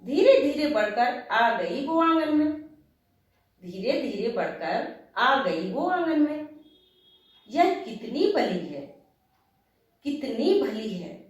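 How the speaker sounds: slow, lilting verse with pitch swoops; poem recitation. Acted. Writer opening her talk with a verse, poetic recitation. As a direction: recite it line by line, pausing after each phrase.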